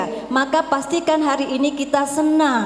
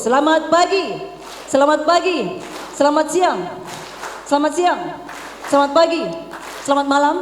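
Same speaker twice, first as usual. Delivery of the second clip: loud higher call; 3 semitones higher than usual. Shown as a demonstration. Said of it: "Oke, fokus".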